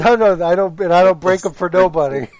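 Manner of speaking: put-on loud Cuban accent quote. Quoting Scarface lines.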